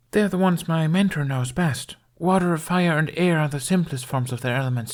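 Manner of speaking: put-on a shy boy proudly listing the elements; young Jamie. Narrator voices young Jamie.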